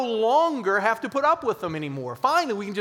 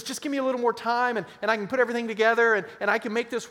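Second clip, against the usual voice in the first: mock pleading; 3 semitones higher, much faster than usual. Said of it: "When he says".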